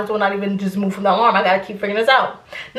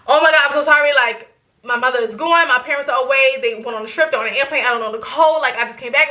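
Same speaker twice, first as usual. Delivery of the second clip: frantic rambling apology; 2 semitones higher than usual. Retold or imitated. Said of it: "word vomit".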